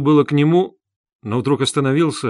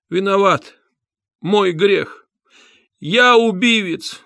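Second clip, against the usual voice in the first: high, strained, slow confession in another voice; breathless loud confession; 7 semitones higher, 3 dB louder, slower than usual. A narrator's reading. Nikolai on his knees confessing, a high strained cry. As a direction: force the words out, short of breath. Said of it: "как будто несколько задыхаясь, но довольно громким голосом".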